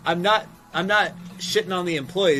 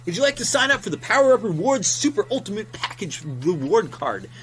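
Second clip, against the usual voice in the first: higher, chirpy salesman patter; upselling GameStop clerk; 5 semitones higher, 3 dB louder than usual. Retold or imitated. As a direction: reel off the rewards pitch like a bored cashier. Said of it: "switch to the GameStop example".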